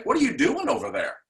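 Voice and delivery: high, loud accusing question; scolding superintendent. Pretend. Superintendent scolding the principal, high and loud. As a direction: blast the principal with it.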